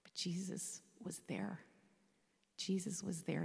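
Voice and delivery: soft whispered confession; hushed whisper. Real, not acted. Widow whispering to the congregation about her loss. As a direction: drop to a whisper, moved. Emotional climax of testimony.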